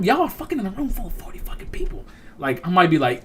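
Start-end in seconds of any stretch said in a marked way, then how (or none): 0.0-2.0 high, whispery aside; mock-secret whisper. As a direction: whisper it like gossip you shouldn't share. Voicing gossip he tries to keep secret.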